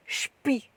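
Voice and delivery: "shpi" drawn out, opening on a long sh; German SP sound. Shown as a demonstration. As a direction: say "shpi" slowly, sh before the p. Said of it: "if it's S P, you go".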